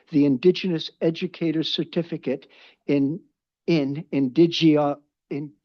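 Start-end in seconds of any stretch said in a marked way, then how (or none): 2.9-5.5 fumbling words through loose dentures. Real, not acted. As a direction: teeth slipping, words stumble out. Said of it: "I have gotta put my teeth back in".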